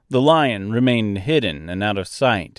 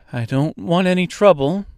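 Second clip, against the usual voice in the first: careful, higher-pitched appeasing tone; calm; 7 semitones higher than usual. A narrator's reading. Dorothy backing away from a giant bird, calmly. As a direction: keep it calm before a threat. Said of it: "she said calmly".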